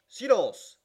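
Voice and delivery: shrill, very loud bailiff's yelp; yelping shout. A narrator's reading. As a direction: yelp it out to silence the court. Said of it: "fit l'huissier d'une voix glapissante". (voix glapissante d'huissier, aiguë et très forte)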